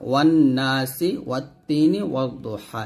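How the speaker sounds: ওয়ান নাসি, ওয়াত তিনি, ওয়াদ দুহা slowly with doubled consonants, no l; silent lam. Shown as a demonstration. Teacher giving sun-letter examples, lam silent in ওয়ান নাসি. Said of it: "লামের উচ্চারণ করা যাবে না".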